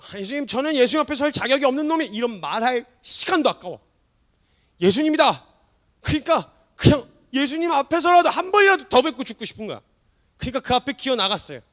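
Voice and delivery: loud, high, fervent sermon climax; impassioned preacher's cry; full-force preaching. Acted. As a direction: drive it home to the congregation.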